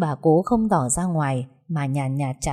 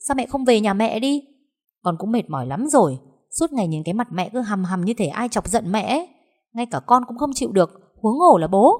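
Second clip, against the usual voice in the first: angry retort; 5 semitones higher than usual. Acted. Daughter angrily retorts to mother.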